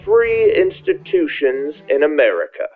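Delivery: put-on Savannah accent. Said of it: "giving him a Savannah accent".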